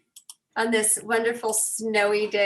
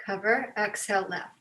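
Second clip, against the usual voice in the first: guided breathing. Real, not acted. Leads breathing exercise.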